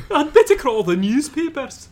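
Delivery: a giddy Scot rushing to the papers, bad Scottish accent; bad Scottish accent, half laughing; mock Scottish voice. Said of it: "That's my best Scottish accent".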